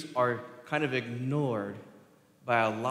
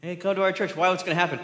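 lightly voiced church promoter, higher pitch; mock church slogan; 4 semitones higher, 5 dB louder, much faster than usual. Preacher imitating a church advertising to newcomers, mock upbeat pitch. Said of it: "Anybody ever seen that as a church slogan?".

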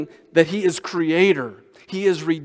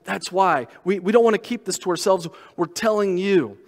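urgent, pressing preacher's appeal; impassioned preaching; 3 semitones higher than usual. Acted. Preacher urging the congregation to share the joy, impassioned. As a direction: plead with them to hear it.

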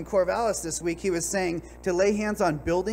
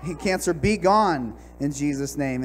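forceful rebuke. Retold or imitated. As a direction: rebuke it like a preacher casting out a demon. Retold prayer rebuking the cancer.

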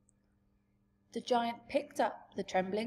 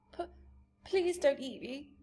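stammering; 5 semitones higher than usual. Acted. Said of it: "Sophie stammered".

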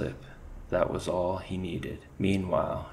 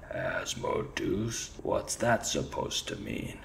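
much lower, slow growling rat chief; gruff commander; 5 semitones lower than usual. Acted. Rat commander echoing his soldier in disbelief, low growl.

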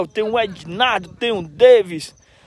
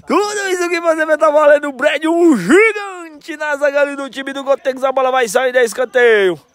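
fast, rising match commentary; excited play-by-play; 4 semitones higher, 4 dB louder than usual. Real, not acted. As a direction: call the action as it happens.

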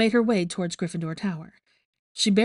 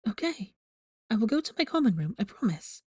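soothing; 4 semitones higher than usual. Acted. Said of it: "She tried to soothe".

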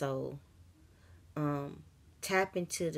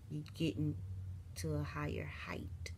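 whispered; 8 dB quieter than usual. Real, not acted. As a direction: drop to a voiceless whisper. Whispered line in sermon.

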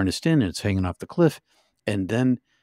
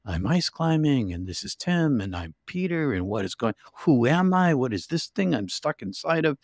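dazed realization; 5 semitones higher than usual. Retold or imitated. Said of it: "I'm like".

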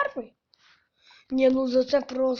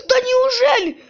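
squeaky voice; 11 semitones higher, 9 dB louder than usual. Real, not acted. Squeaky surprised gasp.

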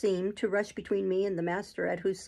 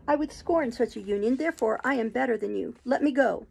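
passionate refusal; 4 semitones higher than usual. Acted. Jane refusing Rochester angrily.

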